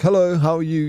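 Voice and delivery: cheery courtesy hello; polite greeting. Shown as a demonstration. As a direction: say hello like a friendly shop clerk. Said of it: "I'd rather someone be nice to me".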